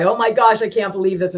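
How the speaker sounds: high, loud mock disbelief; acted amazement. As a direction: play up the gasping astonishment. Acting out her own amazement.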